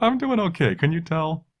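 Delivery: lifted, kind-of-up voice. Host checking in with listeners: voice kind of up. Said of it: "My voice is kind of up".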